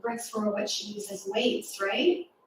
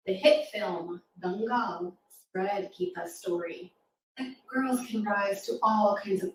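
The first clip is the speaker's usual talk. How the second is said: rhythmic rhyming poem read to a class; poem recital. Acted. Reading a rhyming poem aloud.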